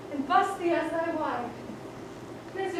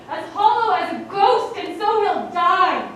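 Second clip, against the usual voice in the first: louder, slowing lament; grieving swell; 6 dB louder than usual. Acted. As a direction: let the grief swell and drag. Constance imagining her son's death.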